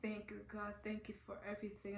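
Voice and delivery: very soft, near-whispered thanks; hushed tearful prayer. Retold or imitated. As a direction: recall it quietly, almost under the breath. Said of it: "I started praying".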